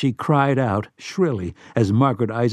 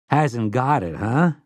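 sympathetic; slower than usual. Acted. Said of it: "Eddie asked sympathetically".

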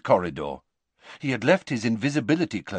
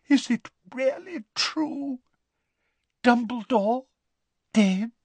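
whispered. A narrator's reading. Fat Lady voiced.

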